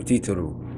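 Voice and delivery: "titaru" with final oo; classical Hebrew. Shown as a demonstration. Second teacher models classical titaru. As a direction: say "titaru" ending in oo. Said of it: "how we say it in classical Hebrew".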